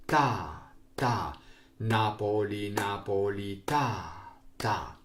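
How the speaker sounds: measured chant of syllables in strict time; evenly spaced beats, drawn-out even syllables; rhythm reading. Shown as a demonstration. Teacher showing the class the tempo, chanted rhythm reading. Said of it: "now I will read".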